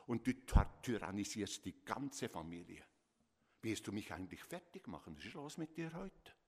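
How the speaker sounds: reproachful, accusing parent voice; irritated parent telling off a child; scolding parent. Shown as a demonstration. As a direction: scold the child with wounding words. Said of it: "Hört ihr den Ton?".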